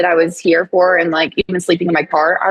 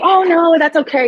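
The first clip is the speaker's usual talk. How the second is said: polite high refusal; 10 semitones higher than usual. Retold or imitated. Politely declining offer, retold.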